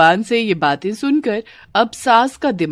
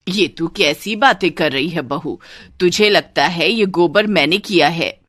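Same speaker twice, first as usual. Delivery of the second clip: lightly voiced indignant saas; offended mother-in-law. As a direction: protest the bahu's silly assumption. (हल्की सी नाराज़ सास)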